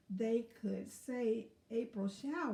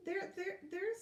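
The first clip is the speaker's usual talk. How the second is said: comforting; 8 semitones higher than usual. Acted. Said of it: "said Watson".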